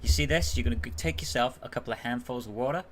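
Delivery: lightly imitated Louisiana accent; deep Southern accent. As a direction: retell it with a hint of Southern US accent. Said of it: "quite the deep accent".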